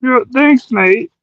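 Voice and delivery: lightly put-on Aussie accent; Australian accent. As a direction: play a put-upon Aussie mate. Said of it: "Did you like my Australian accent".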